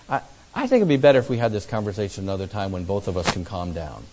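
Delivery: low, quick, softening to the end; calm, conciliatory. Retold or imitated. Retold bid to calm a heated talk.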